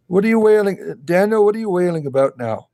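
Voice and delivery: high cooing voice to the rabbit; pet talk. Real, not acted. Talking to her rabbit.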